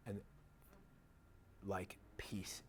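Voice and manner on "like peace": breathy hushed whisper of peace. Acted. Speaker whispering "peace" to convey calm, soft whisper.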